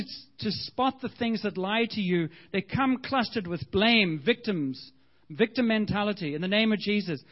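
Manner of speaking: fervent prayer. Acted. Prays over the congregation.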